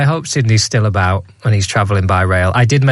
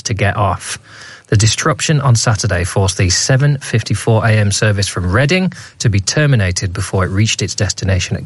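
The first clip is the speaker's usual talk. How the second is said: newsreader voice. Shown as a demonstration. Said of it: "I'm doing my newsreader voice now".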